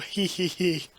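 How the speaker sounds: giddy little hee hee hee; a quick delighted titter; giggle. Real, not acted. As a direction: giggle to yourself, tickled. Giggling at roommate joke.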